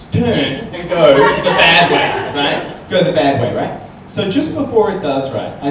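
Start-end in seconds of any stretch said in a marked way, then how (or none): 0.1-2.4 slow, louder, laughing through it; milk the scary turn for the crowd; hammed-up dramatic turn. Telling the crowd the ride's turn, slow and hammed up. Building suspense about the turn.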